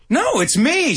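high-pitched mock insistence; imitated girlfriend. Girlfriend correcting Seinfeld's guess, high insistent imitation. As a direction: imitate her correcting him, pitch leaping up. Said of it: "And she goes".

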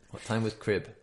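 "What time was crib?" breathed under the breath; whispered to herself. Real, not acted. Puzzling over a quiz question alone, whispering. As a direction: murmur the question privately.

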